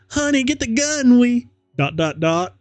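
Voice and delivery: high, urgent whisper-shout to the husband; high frantic mom voice; panicked mother. Acted. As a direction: wake your husband in a panic.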